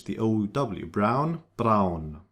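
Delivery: brown, then braun with the same ow; match braun to brown; English vs German ow. Shown as a demonstration. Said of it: "exactly like in English".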